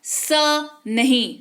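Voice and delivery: स नहीं said slowly, stressing the wrong s sound; स नहीं, drawn out to warn; a slow teacher's warning on स नहीं; slow contrast. Shown as a demonstration. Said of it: "इसका उच्चारण किया जाएगा".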